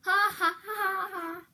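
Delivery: sheepish laugh; spelled-out laugh. Real, not acted. Fake laugh at himself.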